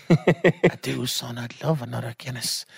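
put-on high, slow old woman's voice; dying granny. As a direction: play the granny gradually fading in volume. Dying granny accepts drink, voiced.

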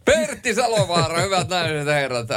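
high-pitched showman's introduction, easing down; mock announcer. Co-host presents the reciter to listeners, mock announcer style. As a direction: present the performer like an emcee.

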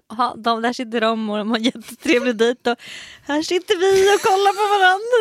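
imagined awkward complaint. Retold or imitated. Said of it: "typ som att så här".

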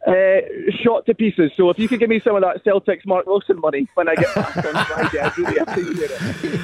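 broad Dundonian accent; thick local Dundee voice. Real, not acted. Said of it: "He doesn't speak that Dundonian when he's in here".

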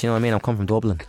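mock Dublin accent; Irish accent. Shown as a demonstration. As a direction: put on a playful Irish brogue. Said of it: "talking like Irish".

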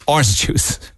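breaks into a laugh mid-word; amused laugh while reading out the list. Real, not acted. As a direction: chuckle through the words orange juice.

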